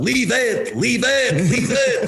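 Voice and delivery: imitated yell. Mario telling the defenseman to drop the puck, imitated high yell. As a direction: bark it up high like a frantic teammate. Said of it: "he'd just yell out".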